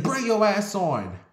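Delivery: high-pitched mock command; acted impatience, pitch up; retold bossy order. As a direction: imitate an angry boyfriend ordering someone along. Boyfriend ordering partner along, retold.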